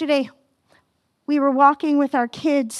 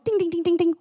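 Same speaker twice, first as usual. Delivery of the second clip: mock bell; 2 semitones higher, much faster than usual. Shown as a demonstration. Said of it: "you should be going".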